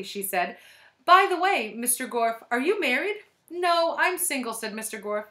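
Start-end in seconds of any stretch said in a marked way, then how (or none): 1.0-3.2 high, loud coy question; flirty lady. A narrator's reading. Flirting teacher. 3.5-4.5 high, loud smooth voice; charming reply. A narrator's reading. Gorf flirting back.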